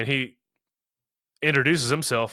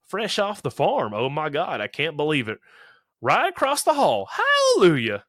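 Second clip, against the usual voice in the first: put-on hillbilly-ish accent; 4 semitones higher, 4 dB louder than usual. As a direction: whoop it up like a mock hillbilly. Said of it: "hillbilly-ish accent".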